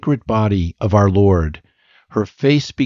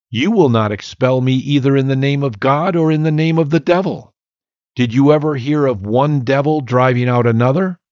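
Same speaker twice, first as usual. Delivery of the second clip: higher, taunting devil's mockery; mocking; 4 semitones higher than usual. Devil taunts the preacher about driving out devils, mocking. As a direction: taunt him with a sneering lilt. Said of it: "said the devil mockingly".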